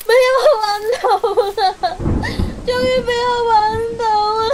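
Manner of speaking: relieved triumph. Acted. Finds the hairclip at last.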